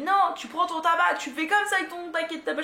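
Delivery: hammed-up police officer; policeman's order. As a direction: command her like a strict policeman.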